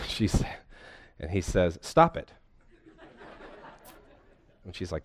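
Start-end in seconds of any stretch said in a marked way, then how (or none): 1.8-2.3 high, laughing "Stop it"; laughing quote. Retold or imitated. Preacher retelling the sketch to his congregation, laughing. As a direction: blurt it out through a laugh. Therapist's blunt retold punchline.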